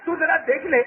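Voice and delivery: father's mild call across the house. Retold or imitated. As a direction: call out to the wife, not a full shout. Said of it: "باپ چلا کر کہتا ہے".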